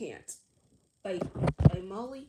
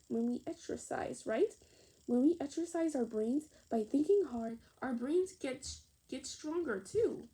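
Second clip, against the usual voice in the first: a hint of an upbeat teacher, louder; teacher explaining; 7 dB louder than usual. Teacher telling children exercise makes brains stronger, lightly voiced. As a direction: explain it to the class with energy.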